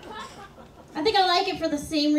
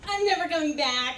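laughing; faster than usual. Retold or imitated. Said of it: "it was more like".

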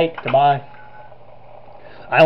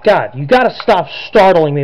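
shaken and exasperated; 3 semitones higher, 5 dB louder than usual. Real, not acted. Reacting after jump scare.

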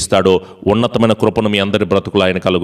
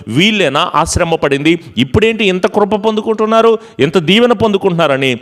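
amazed relatives; 7 semitones higher than usual. Retold or imitated. Relatives marvelling at the blessed believer, high and astonished. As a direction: exclaim in amazement at their blessing, pitched high. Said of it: "జనులు ఎదుట సాక్షిగా".

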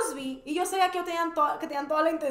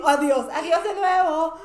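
laughing; 5 dB louder, much slower than usual. Retold or imitated. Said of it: "así".

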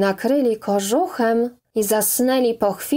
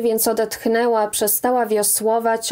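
ordinary delivery

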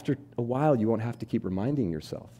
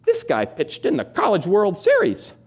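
high, slow, clueless read-aloud; slow bewildered mother, much higher; puzzled mom reading; 11 semitones higher, 6 dB louder, slower than usual. Retold or imitated. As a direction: read it like she hasn't caught on. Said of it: "my mom looks up and goes".

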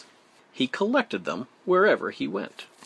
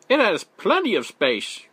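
raised, higher beaver voice; beaver calling out; 7 semitones higher, 4 dB louder than usual. A narrator's reading. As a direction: call out the offer as a friendly beaver. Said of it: "called Beaver".

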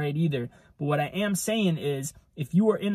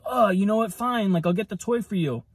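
giving in. Acted. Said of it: "You're just like".

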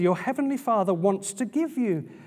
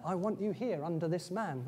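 softer, a hushed replay of the Spirit's words; echo of the inner voice; 4 semitones lower, 9 dB quieter than usual. Retold or imitated. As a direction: say it again quietly, as if remembered inside. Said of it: "It was just like that".

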